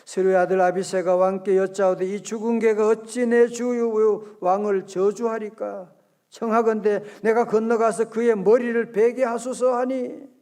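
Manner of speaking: measured pulpit recitation of a verse; formal Bible reading aloud; scripture reading. Acted. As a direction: read the verse out in even, sustained phrases.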